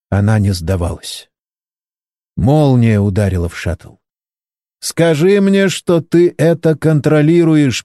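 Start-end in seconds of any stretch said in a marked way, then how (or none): 4.8-7.8 high, slowed worried pleading; anxious plea. A narrator's reading. Valery begging the pilot for reassurance, in a high anxious voice. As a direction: beg for reassurance. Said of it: "переживал Валерий".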